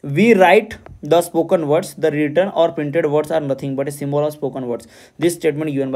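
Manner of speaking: reads the exam question aloud slowly and deliberately; slow question reading. Acted. Teacher reading a quiz question to students, slow and deliberate. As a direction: dictate each word of the question slowly.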